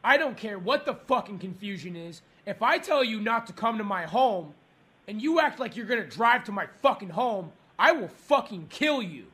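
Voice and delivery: low-pitched, menacing warning; low angry threat. Acted. Caller threatens restaurant over driver.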